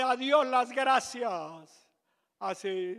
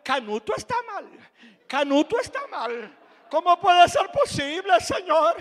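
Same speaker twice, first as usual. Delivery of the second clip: self-pitying complaint; 4 semitones higher than usual. Retold or imitated. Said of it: "Casi que decía".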